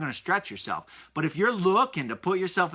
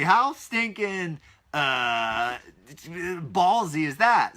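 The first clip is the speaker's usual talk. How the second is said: impressed; much slower than usual. Real, not acted. Admiring exclamation, drawn out.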